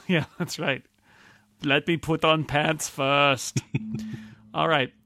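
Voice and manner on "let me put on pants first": put-on Terminator's Austrian accent. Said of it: "he speaks with an Austrian accent".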